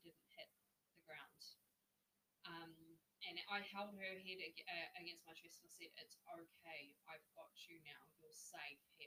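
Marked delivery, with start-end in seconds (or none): 6.0-9.1 soft, hushed comforting; tender reassurance. Retold or imitated. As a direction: soothe her as she comes round. Holding the fainted woman.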